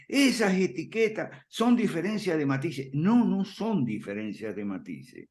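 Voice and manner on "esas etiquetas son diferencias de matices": lightly raised, mildly mocking voice of a newcomer; a slight mock of someone who says it's all nuance; quoting newcomers. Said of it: "mucha gente que se acerca a nosotros dice". (cita algo burlona, apenas más aguda)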